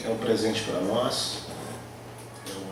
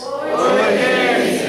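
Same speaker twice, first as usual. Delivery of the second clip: much higher, chirpy crowd reply; congregation answering; 12 semitones higher, 5 dB louder, much slower than usual. Retold or imitated. Pastor mimics the church answering him in a high voice. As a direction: squeak it back like the whole room. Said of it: "Aí vocês repetem".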